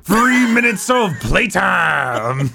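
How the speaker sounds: hammed-up wrestling promo growl; Macho Man voice. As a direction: gravel it out like a wrestler. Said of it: "That's the Macho Man".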